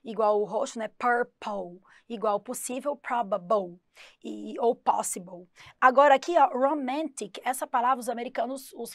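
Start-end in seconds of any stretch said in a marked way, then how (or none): 0.9-1.8 PURPLE drawn out, ending like "pou"; final O sound. Shown as a demonstration. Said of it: "que ele tem som de O". 2.9-3.8 PROBABLE ending like "bou"; final O sound. Shown as a demonstration. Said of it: "que ele tem som de O". 4.7-5.5 POSSIBLE drawn out, ending like "bou"; final O sound. Shown as a demonstration. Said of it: "que ele tem som de O".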